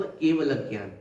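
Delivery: "केवल" ends with a held, stressed "ल" before "ज्ञान"; stress before the conjunct. Shown as a demonstration. Teacher demonstrating correct pronunciation, stressing the "ल" of "केवल". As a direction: double the "ल" of "केवल", then say "ज्ञान". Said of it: "सही जो pronounce होता है".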